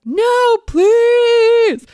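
very high, loud begging scream; stretched, shrieking mock plea. A narrator's reading. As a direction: beg in hammed-up terror. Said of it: "screamed Press".

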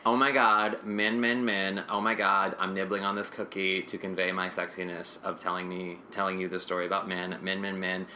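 lightly voiced breathy seductress; a hint of swooning Blanche; mock sexy Blanche. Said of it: "basically it goes".

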